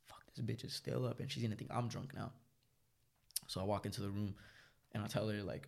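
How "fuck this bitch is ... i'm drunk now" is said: soft private grumble; hushed inner thought. Retold or imitated. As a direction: think it softly under your breath. Muttered thought, others asleep, TV on.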